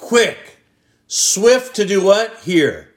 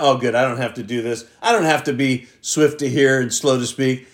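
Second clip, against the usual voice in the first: mock relieved listener; 4 semitones lower, faster than usual. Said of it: "don't think you're counted out".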